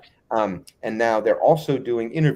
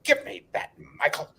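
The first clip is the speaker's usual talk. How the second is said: much higher, imitated boss snapping; bossy demand; 8 semitones higher than usual. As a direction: grab the camera like a pompous boss. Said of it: "he comes over".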